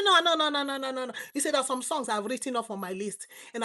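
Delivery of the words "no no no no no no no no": emphatic no. Real, not acted. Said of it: "rejecting the word covers".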